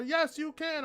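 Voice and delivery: high-pitched, hyped-up coaching voice; mock trainers cheering. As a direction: play the pushy trainer egging him on. Trainers urging him at deadlift.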